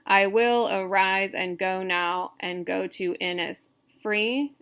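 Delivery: measured, syllable-counting verse reading; deliberate poem recitation, pausing before the last beat; scansion reading aloud. Shown as a demonstration. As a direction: read the line evenly, beat by beat. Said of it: "talking out loud when you're doing scansion".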